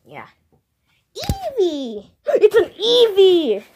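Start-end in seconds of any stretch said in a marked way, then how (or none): 1.1-3.6 high gasping discovery, slowing down; high delighted gasp. Pretend. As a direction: gasp and announce with joy. Finding a new Pokemon.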